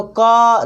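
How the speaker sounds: "का" drawn out to show its long vowel; stressed long vowel. Shown as a demonstration. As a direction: hold the "आ" in "का". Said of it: "का में आ की sound आ रहा".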